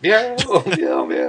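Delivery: mock meows, first one high; cat meowing. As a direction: meow like a cat. Imitating a cat.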